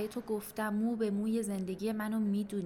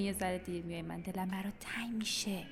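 tender whisper; 3 semitones lower, 5 dB quieter than usual. Acted. Confides to late boyfriend.

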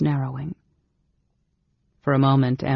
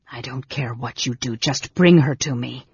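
impatient sneer. Acted. Mage ordering his brother to fetch the girl, impatient sneer. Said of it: "sneering voice".

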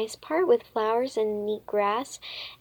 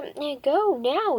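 louder and higher, slowed; yelled; 5 semitones higher, 5 dB louder, slower than usual. A narrator's reading. Missus Trant yelling at the girls to go. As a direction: yell at them to leave. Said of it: "yelled Missus Trant".

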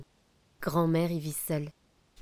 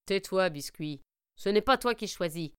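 gruff wolf. Acted. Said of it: "fait le loup".

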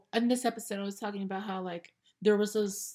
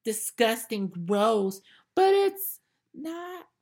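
mock disgust; 2 semitones higher, 5 dB louder, much slower than usual. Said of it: "I'm gonna do the same thing".

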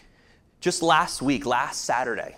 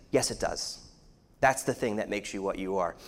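voice of shame; 8 semitones lower, 6 dB quieter than usual. Retold or imitated. Voicing shame's inner words.

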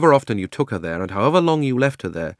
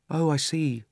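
higher, gentler realisation; subdued, understanding reply; different, softened voice; 7 semitones higher, 3 dB quieter, slower than usual. A narrator's reading. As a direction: back down as it dawns on you. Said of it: "in rather a different voice".

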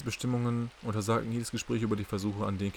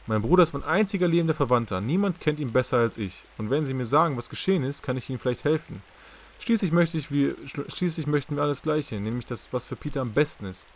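louder and higher, pressing hard; urgent plea; 5 semitones higher, 6 dB louder than usual. Acted. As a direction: plead urgently with rising intensity. Catherine pleads firmly for her brother. (eindringlich und laut, bittend)

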